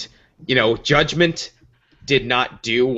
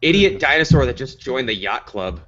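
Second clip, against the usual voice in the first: laughing; 2 semitones higher than usual. Real, not acted. Laughing at impression.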